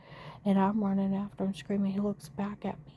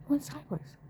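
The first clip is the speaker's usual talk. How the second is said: "Went sideways" said higher, stressed; emphatic repeat; 6 semitones higher than usual. Real, not acted.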